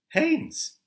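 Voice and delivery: sudden high, loud name; spring the villain's name on them; a startled shriek of a name; dramatic reveal. A narrator's reading.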